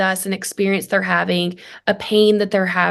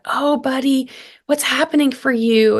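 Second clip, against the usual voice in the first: higher, tender imitation of comforting; concerned mother; 4 semitones higher than usual. Mother asking her crying five-year-old, concerned. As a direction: gently coax an upset child. Mother soothing upset child.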